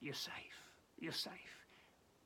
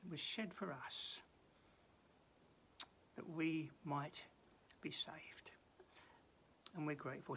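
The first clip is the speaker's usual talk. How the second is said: prayer. Acted. Preacher leads the congregation in a closing prayer, hushed.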